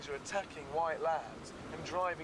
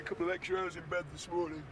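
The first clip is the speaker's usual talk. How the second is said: lightly put-on news voice-over; newscaster voice; 4 dB quieter than usual. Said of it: "That was my newscaster voice".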